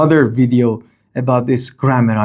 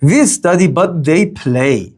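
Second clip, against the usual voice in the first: "We" raised, "but they play" drawn out slowly; contrastive stress. Shown as a demonstration. Teacher contrasting two subjects, contrastive stress. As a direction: set "We" against a slow, stressed "they". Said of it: "Comparing and contrasting".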